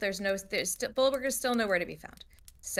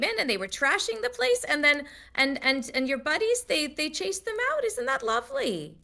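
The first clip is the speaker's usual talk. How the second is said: rambling, marvelling barkeep, higher by the end; effusive tavern keeper; 5 semitones higher than usual. Acted. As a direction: gush about the rescue as the hostess. Dora recounts the night.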